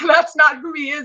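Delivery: laughing it off, amused disbelief; giggling correction. Real, not acted. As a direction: chuckle through the denial. Laughing at her own made-up quote.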